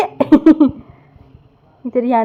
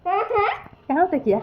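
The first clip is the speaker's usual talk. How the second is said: laughing tease; 6 semitones higher, 6 dB quieter, much slower than usual. Real, not acted. Teasing baby, laughing.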